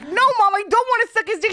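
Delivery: put-on high, loud whiny kid voice; imitating Pete Davidson telling his mom he's gay; Pete Davidson impression. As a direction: play Pete as a whiny eleven-year-old pleading with mom. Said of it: "Let's hear your Pete Davidson".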